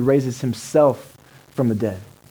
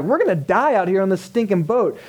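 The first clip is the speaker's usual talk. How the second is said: higher, mildly panicked mock outcry; scared disciples; 4 semitones higher than usual. Disciples in the storm-tossed boat, acted mild panic. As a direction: act a touch of freaking out. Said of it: "They get scared".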